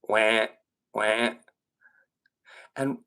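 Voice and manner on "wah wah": low, spaced-out duck quacks; imitated duck call. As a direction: imitate a lone duck, deadpan. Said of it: "we hear this duck".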